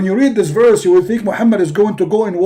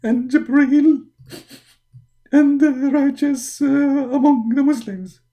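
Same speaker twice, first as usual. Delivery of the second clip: 1 mock crying; 3 semitones higher than usual. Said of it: "Why you are crying?".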